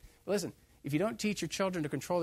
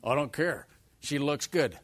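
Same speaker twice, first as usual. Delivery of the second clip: loud dismissive retort; stubborn son; 5 dB louder, slower than usual. Retold or imitated. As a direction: brush off the parent loudly. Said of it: "A son that says".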